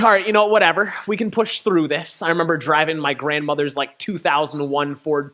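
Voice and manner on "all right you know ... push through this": forced optimism. Retold or imitated. To his friend as the wheel stiffens, forced upbeat bravado. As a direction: talk himself into it, bright and bold. Forcing confidence after the steering fails.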